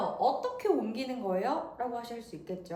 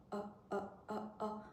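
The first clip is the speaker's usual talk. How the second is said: soft glottal ahs; 3 semitones lower, 12 dB quieter, slower than usual. Shown as a demonstration. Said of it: "목구멍 안에서 뭔가".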